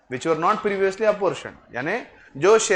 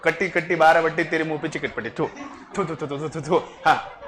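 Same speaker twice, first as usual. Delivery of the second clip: put-on childish taunt; 2 semitones lower than usual. Childish kutti rhyme, mock spitting.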